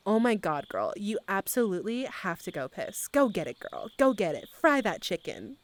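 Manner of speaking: lightly put-on Valley Girl hype; Valley Girl accent. Streamer sending viewer to the bathroom, Valley Girl accent. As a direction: cheer them on with a Valley Girl swoop. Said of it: "a Valley Girl accent?".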